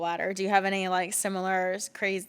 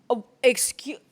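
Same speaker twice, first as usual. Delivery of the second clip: much higher, indignant squeal; high, indignant and far from her own voice; high-pitched outrage; 5 semitones higher, 6 dB louder than usual. Retold or imitated. Retold outrage at being left untucked.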